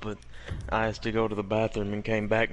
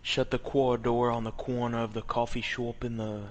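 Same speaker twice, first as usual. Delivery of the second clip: put-on Boston accent. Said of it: "I can't even recreate it".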